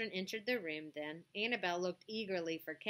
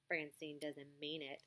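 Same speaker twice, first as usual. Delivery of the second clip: whispered; 4 semitones lower, 9 dB quieter than usual. A narrator's reading. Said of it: "Annabelle whispered to Tiffany".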